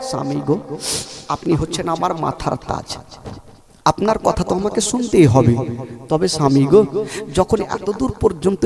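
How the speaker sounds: quiet spoken. Acted. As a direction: drop the chant and say it softly. Same plea spoken low after chant. (নিচু নরম গলায় তাড়াতাড়ি সাধারণ কথা)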